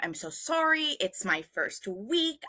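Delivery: retold embarrassed apology, starting high; mortified apology. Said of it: "mortified. I, I said to him".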